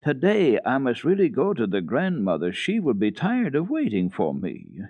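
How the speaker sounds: a lightly voiced girl, insistent; eager little girl. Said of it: "began her little speech again".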